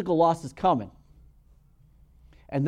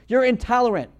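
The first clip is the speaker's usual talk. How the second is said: mock accusing shout, louder and higher; imitated yelling; 6 semitones higher, 7 dB louder than usual. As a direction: throw the accusations like a heckler. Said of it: "They're gonna start yelling at you".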